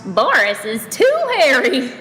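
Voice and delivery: yelling mouse. A narrator's reading. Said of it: "yelled another".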